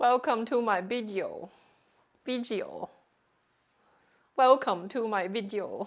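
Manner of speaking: slow, with stretched vowels and odd intonation. Show how to extend the vowels with weird intonation, in an Uncle Roger voice with extended vowels. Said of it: "You got to extend the vowel and then you have the weird intonation".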